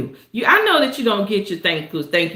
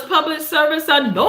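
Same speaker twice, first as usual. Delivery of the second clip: cried-out high catchphrase; signature shouted phrase; 5 semitones higher than usual. Real, not acted. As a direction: belt the catchphrase with a wail. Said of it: "I have to say it like that".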